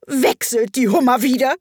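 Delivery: high-pitched excited howl. A narrator's reading. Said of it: "heulte der Greif mit erhobener Stimme".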